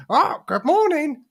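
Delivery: high, slow posh greeting; high, slow genteel good morning; unparrot voice. Retold or imitated. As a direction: greet like a very proper gentleman, not a bird. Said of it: "in the most unparrot voice you've ever heard".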